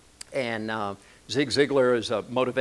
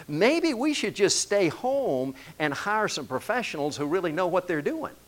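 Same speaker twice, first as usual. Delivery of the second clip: mock objection; 3 semitones higher than usual. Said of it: "you may be thinking".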